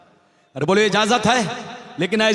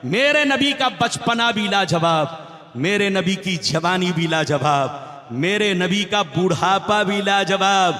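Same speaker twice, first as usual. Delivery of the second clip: preaching. Acted. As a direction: preach to a big crowd, stretching key words. Preaches to a crowd. (जोशीली तक़रीर के अंदाज़ में)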